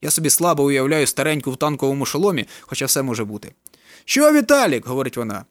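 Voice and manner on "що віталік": put-on old grandmother. A narrator's reading. Grandmother speaks.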